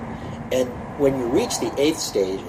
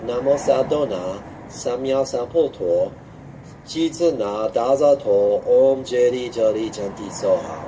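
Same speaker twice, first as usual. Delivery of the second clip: slow full mantra. Shown as a demonstration. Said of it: "syllable by syllable".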